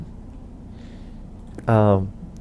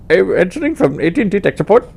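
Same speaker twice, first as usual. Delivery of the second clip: higher, louder, fast agent patter; put-on tech support voice; 8 semitones higher, 6 dB louder, faster than usual. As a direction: rattle off the company name like a scripted agent. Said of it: "I actually wanna do voices".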